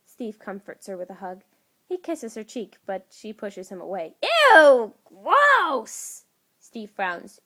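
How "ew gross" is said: put-on much higher, loud childish yuck; disgusted squeal. Tasha pushing Steve away, loud high disgusted squeal. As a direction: squeal like a grossed-out kid.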